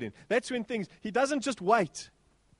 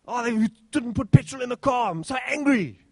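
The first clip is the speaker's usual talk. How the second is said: mock angry driver; 3 semitones higher, 5 dB louder than usual. Preacher imitates congregant angry about petrol, louder mock grumble. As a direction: play a fuming churchgoer.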